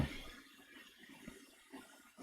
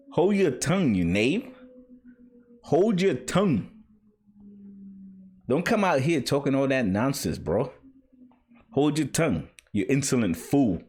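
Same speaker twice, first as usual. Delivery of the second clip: high, lordly rebuke of a knave; haughty scolding; 5 semitones higher than usual. Acted. Speaker as a character rebuking a liar, high haughty scolding. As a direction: put the upstart in his place, grandly.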